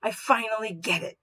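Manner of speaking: mild demo excitement; with feeling. Shown as a demonstration. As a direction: say it like it just clicked. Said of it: "You've got feeling behind it".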